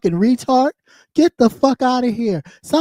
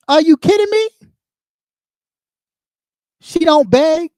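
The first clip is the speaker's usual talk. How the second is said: much higher, shrill disbelief; incredulous outrage; 7 semitones higher than usual. Real, not acted. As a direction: squeak out your outrage at the absurd claim.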